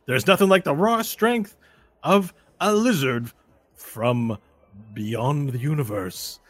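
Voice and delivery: big, high, excited announcer voice; arena announcer. Acted. Announcer hails the savage's win, grand showy announcer voice. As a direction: hype the fighter, stretching out the finish. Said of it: "you hear the voice of the announcer".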